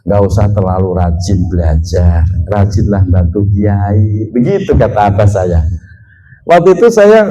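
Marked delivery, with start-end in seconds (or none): 0.0-4.3 low, soft imitation of a father advising; lower, quieter quoted fatherly voice; father's advice. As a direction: quote an elder's counsel, pitched well down. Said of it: "abah saya dulu pesen begitu".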